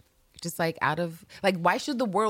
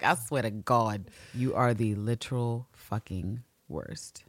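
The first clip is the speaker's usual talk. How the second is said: exasperated; 7 semitones lower, 4 dB quieter, slower than usual. Retold or imitated. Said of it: "Marion is like".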